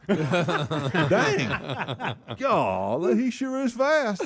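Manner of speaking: high, slow, amazed man's voice; impressed neighbor voice. Retold or imitated. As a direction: act out a man who is truly impressed. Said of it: "I said".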